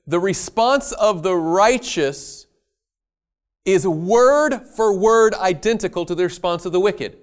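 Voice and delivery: deliberate emphasis on word for word identical; stress on response. Real, not acted. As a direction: lean hard on response and word for word. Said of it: "emphasizes identical responses".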